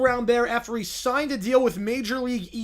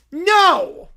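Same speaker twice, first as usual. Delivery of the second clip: higher, louder, slow dim bear shout; 8 semitones higher, 9 dB louder than usual. Acted. Little Brown Bear shouting about romance, slow and loud. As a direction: bellow it like a lovesick bear.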